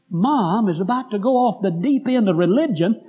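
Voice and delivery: worried complaint. Retold or imitated. Daughter complaining about Mom's religion, acted-out alarm. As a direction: imitate an upset daughter reporting on Mom.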